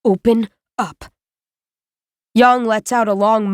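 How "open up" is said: deep and patient. A narrator's reading. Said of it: "deep and patient".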